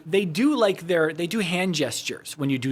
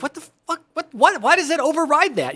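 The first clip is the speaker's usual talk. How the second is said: high, baffled outburst of disbelief; retold disbelief; 11 semitones higher, 4 dB louder than usual. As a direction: throw your hands up, nothing works. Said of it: "I was like".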